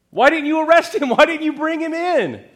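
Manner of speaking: loud, high, demanding questions; angry demand. Acted. Pharisees demand why officers failed, loud angry. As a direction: hurl the question at them.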